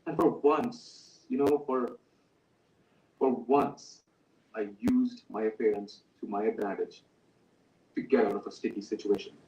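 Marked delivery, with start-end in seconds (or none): none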